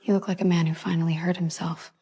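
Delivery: soft, half-whispered observation; hushed remark. Acted. Quiet remark after the conflict.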